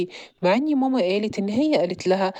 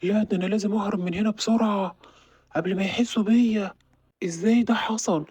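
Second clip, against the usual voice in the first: lightly voiced burglar. Thief voices his plans.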